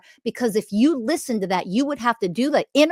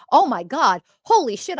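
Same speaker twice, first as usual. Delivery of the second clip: much higher, louder imitated gasp of awe; mock amazement; 5 semitones higher, 4 dB louder than usual. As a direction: play someone suddenly seeing the truth, higher. Imagined awakened person sees truth.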